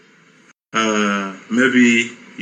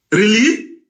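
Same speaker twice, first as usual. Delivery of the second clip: sharp high disbelieving "Really?"; pitched-up indignant "Really?"; incredulous really; 9 semitones higher than usual. Real, not acted. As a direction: scoff it out in disbelief.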